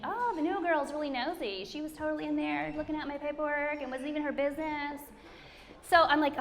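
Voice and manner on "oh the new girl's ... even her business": imagined gossip. Retold or imitated. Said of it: "I don't want everybody to think".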